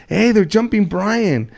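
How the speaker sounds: drawn-out call to friends; retold alarm call. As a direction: call out the alarm, slowly stretched. Acts out buddy raising the alarm.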